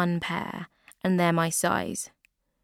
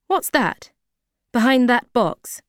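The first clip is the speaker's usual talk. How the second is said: surprised high; 6 semitones higher, 8 dB louder than usual. Acted. Customer spots hidden jeans.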